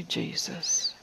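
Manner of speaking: hushed, breath-only utterance; quietly to yourself. Shown as a demonstration. Preacher showing believers they needn't scream it, quietly to oneself. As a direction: whisper it softly, for your ears only. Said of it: "Just quietly to yourself".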